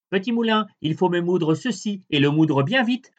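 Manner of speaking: high dwarf giving the spell. A narrator's reading. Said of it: "Il suffit de dire".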